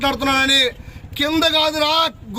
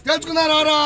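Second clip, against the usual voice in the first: higher shouted dare; angry dare; 3 semitones higher than usual. Real, not acted. Daring rival to come settle it. (కోపంగా సవాలు)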